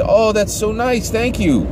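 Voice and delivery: high, sugary thank-you; high polite lady gushing over a pie; church lady voice. Retold or imitated. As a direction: gush politely like a prim neighbor. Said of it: "And the lady said".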